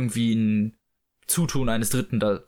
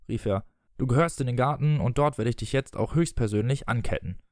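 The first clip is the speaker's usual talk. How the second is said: expressive audiobook reading with voiced dialogue; story narration. A narrator's reading. Reading Peter Pan aloud to listeners, story narration. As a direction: read the tale aloud, measured and articulated.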